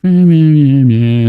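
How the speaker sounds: imitating sad music. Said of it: "and then the music".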